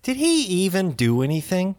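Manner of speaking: high-pitched disbelief at the movie; retelling his own baffled reaction, voice climbing high; incredulous. Retold or imitated. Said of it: "I was like".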